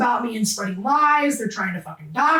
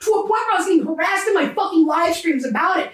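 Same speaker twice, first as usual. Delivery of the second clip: worked-up, indignant venting, pitch climbing; getting emotional; 3 semitones higher than usual. Real, not acted. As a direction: get heated as you recount the accusation. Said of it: "I'm sorry if I'm getting emotional".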